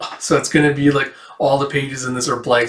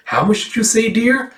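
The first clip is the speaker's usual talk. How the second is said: lightly voiced sweet old lady, pitch rising high; a hint of a doting old church lady asking dear; high little old lady; 9 semitones higher than usual.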